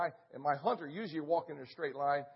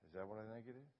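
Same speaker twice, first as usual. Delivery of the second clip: much softer, whispered question; 7 semitones lower, 18 dB quieter, faster than usual. Retold or imitated. Hunter whispering to his guide, very soft. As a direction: whisper it so the lion won't hear. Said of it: "and I whispered".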